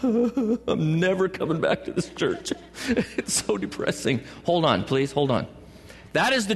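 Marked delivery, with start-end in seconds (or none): 0.0-4.2 high, slow mock complaint; put-off church guest. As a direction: imitate a dismayed newcomer in a higher voice. Voices a put-off first-time guest.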